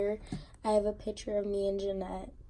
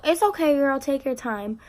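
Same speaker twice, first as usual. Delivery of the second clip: friend's encouraging voice; 5 semitones higher, 4 dB louder than usual. Retold or imitated. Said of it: "She was like, she's like".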